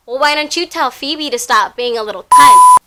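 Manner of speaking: half-hammed furious reply; mock angry outburst. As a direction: deliver his rant as a mild mock tantrum. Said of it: "completely flips his lid".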